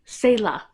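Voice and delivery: Selah said as SAY-luh, long A in the first syllable; correct pronunciation. Shown as a demonstration. Correcting a brand name for viewers, careful long A. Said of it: "It was Selah".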